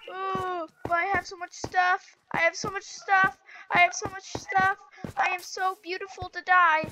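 high-pitched whine for mercy; playful mock despair; mock panicked pleading. Pleading while about to die in game.

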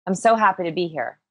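flat, lifeless. Shown as a demonstration. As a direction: say it like you're dying inside. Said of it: "I sound like I'm dying inside".

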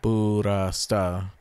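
"Burasta" slowly as bu-ra-sta; three separate syllables. Shown as a demonstration. Counting syllables for viewers, slow measured "Burasta". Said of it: "One, two, three".

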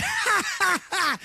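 mocking laugh.

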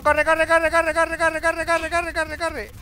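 high, loud panicked chant; frantic high run-run-run; panicked urging. Real, not acted. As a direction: run for your life, gabbling it. Fleeing enemies at low health.

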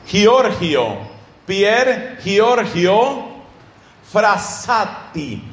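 "Giorgio" with throaty h's, hee-OR-hee-oh, slowly; read as spelt. Shown as a demonstration. Preacher dictating the name, "Giorgio" slowly read as written in Spanish. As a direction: spell out "Pier Giorgio Frassati" by sound, word by word, very slow. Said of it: "se escribe Pier Giorgio Frassati".

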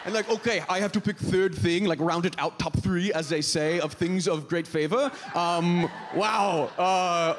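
eager foreign exchange student English; halting, chirpy non-native accent. Acted. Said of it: "what accent I'm doing".

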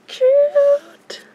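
whispering. Real, not acted. Cooing over toy.

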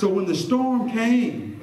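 slow, drawn-out preacher's build; impassioned preaching. Real, not acted. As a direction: stretch it out for the congregation.

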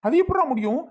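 high-pitched indignant retort; indignant refusal. Acted. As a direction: object as if cheated. Acted quarrel, refusing the money.

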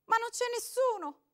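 woman whimpering through the door. A narrator's reading. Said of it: "piagnucolò lei".

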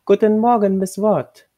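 a stately lady announcing herself; proud lady's greeting. A narrator's reading. Lady of the house greeting the new maid, proud and loud.

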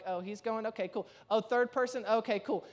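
understated sneaking-out aside; hushed onlooker. Acted. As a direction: quietly act out someone noticing a way out. People slipping out one by one.

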